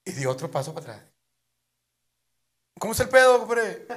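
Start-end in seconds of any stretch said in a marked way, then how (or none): 2.8-3.9 shouted, laughing challenge; loud challenge. Acted. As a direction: call it out rough. Moreno insiste, gritando. (reto a gritos)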